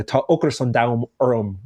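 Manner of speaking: Tá ocras an dam orm said in Irish; Irish phrase. Shown as a demonstration. Explaining the dramatic Irish phrase, spoken in Irish. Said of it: "more dramatic".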